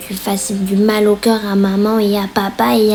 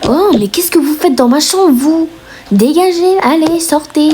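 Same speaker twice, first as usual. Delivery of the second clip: high, loud furious outburst; angry; 7 semitones higher, 3 dB louder than usual. Acted. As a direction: throw them out of your room, shouting. Sister furious at intruders.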